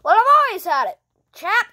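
put-on Australian accent. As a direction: answer in a mock Aussie voice. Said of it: "Where did you get that Australian accent?".

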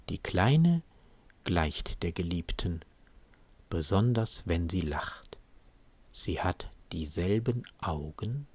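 soft verse reading with pauses; subdued poem recitation. Acted. Quoting the verse on the child resembling the beloved, soft recitation.

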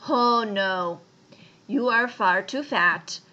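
loud objection from the animals; shouted protest. A narrator's reading. Other animals turning the boar away, shouting. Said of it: "the other animals shouted".

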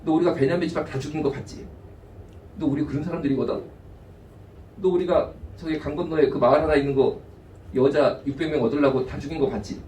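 low, quiet mock threat from bullies; hushed mock menace; menacing threat. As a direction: threaten them softly, like thugs. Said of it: "이런 식으로 나옵니다".

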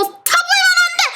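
high desperate yell; panicked shout. Real, not acted. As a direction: cry out no. Danger on goal. (다급한 외침)

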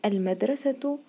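"المدرسة" ending in "-tu"; taa in connected form. Shown as a demonstration. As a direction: sound the ة of "المدرسة" as T plus vowel. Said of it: "المدرسة نطقتها تاء يا مس".

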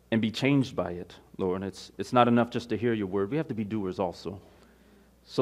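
low, hushed congregational prayer; opening prayer. Real, not acted. Pastor asking the Lord to teach the congregation, prayerful. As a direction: pray earnestly, in a subdued even voice.

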